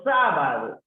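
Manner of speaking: sábado with a loud, punched SÁ; stress on first syllable. Shown as a demonstration. Teacher giving an example of esdrújulas, sábado stressed hard on SÁ. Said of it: "la sílaba tónica se encuentra en la antepenúltima".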